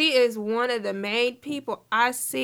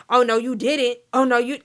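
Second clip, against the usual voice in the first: louder mock "Oh, no, you didn't"; mimicked overdone emphasis; 5 dB louder than usual. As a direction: imitate someone piling emphasis on "didn't". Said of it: "trying to add emphasis on stuff".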